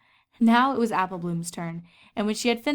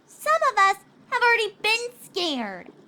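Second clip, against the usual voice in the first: glaring reproach; 13 semitones higher, 4 dB louder than usual. Acted. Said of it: "added with a glare".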